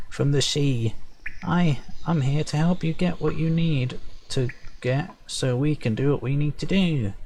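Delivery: high, perky little sprite voice. Acted. Sprite envoy retaking his line, perky and high. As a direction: chirp it brightly, high up. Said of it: "I'll try and say it properly".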